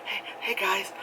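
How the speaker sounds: mock-cheery girl, hey hey whispered then lifted high; a hint of a dead-eyed vlogger faking a smile; dead-eyed forced cheer. Girl greeting her viewers with an empty, forced cheer. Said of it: "really dead in the eyes, but trying to smile".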